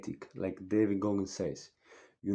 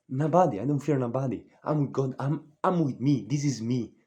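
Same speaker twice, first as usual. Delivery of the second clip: defiant; 3 semitones higher, 5 dB louder than usual. Real, not acted. Defiant rant to viewers.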